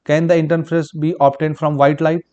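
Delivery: slow, word-by-word dictation of the answer; measured note-taking pace. Shown as a demonstration. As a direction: dictate it slowly so students can write. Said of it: "पढ़ लेना".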